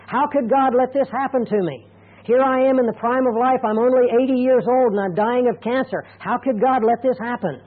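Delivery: mild angry lament. Retold or imitated. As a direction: imitate a believer angry at God. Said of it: "angry at God".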